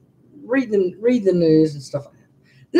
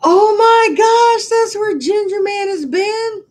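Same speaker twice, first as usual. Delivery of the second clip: high, slow, loud cry of discovery; oh my gosh, drawn high and slow in surprise; amazed discovery; 12 semitones higher, 4 dB louder, slower than usual. Retold or imitated. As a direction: drag it out as if stunned to find it. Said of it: "And I said".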